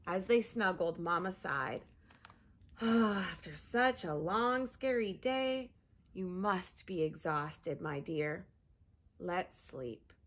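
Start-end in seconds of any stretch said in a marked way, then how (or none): 2.8-10.1 soothing mother. Acted. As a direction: soothe her toward sleep. Mama soothes tired Pip.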